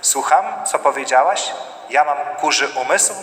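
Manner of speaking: level, asking to confirm; calm checking question. Acted. Spouse calmly asking for feedback, level voice. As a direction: check what you heard, without heat. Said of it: "jakby ktoś użył informacji zwrotnej".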